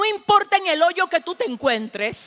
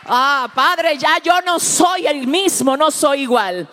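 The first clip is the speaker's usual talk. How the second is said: shouted, raised and close to tears; defiant shout; 3 semitones higher, 3 dB louder than usual. Acted. Believer shouting defiance at the enemy, voice near tears. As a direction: cry it out at the enemy that you have changed.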